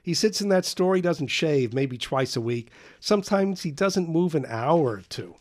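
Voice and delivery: high, loud, scornful tirade; a boy mocking his father to friends; agitated bitter rant. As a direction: spit out contempt for his father. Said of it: "taking the dim and agitated view".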